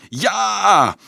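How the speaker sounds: high, drawn crowd roar; crowd bellow. A narrator's reading. Children answer the monk's rallying question, bellowing. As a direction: roar assent like a mob. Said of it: "loeiden de kinderen".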